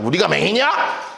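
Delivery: sneering mock question; sarcastic jab. Shown as a demonstration. 바리새인이 예수님께 비꼬며 묻는, 빈정거리는 말투. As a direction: needle him with sarcasm. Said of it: "비꼬며".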